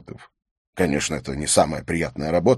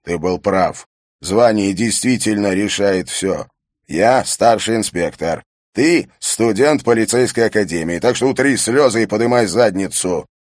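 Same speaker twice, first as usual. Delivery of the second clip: harsh command; 3 semitones higher, 6 dB louder than usual. Acted. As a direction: hammer each word home. Harry pulls rank.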